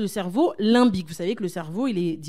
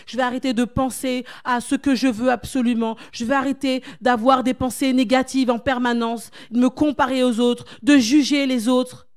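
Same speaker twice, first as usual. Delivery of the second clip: mock prayer; 2 semitones higher, 3 dB louder than usual. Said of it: "tu dises".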